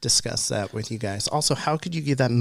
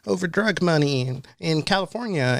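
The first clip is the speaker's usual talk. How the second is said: mock outrage; 5 semitones higher than usual. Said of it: "everyone's like".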